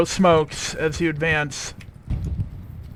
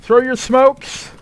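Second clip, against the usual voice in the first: shouted order; 7 semitones higher, 5 dB louder, slower than usual. Real, not acted. Squad leader calling orders.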